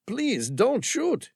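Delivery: high, slow desperate plea; high, slow mild mock shout; pleading shout. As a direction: beg them not to fire. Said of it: "he shouted".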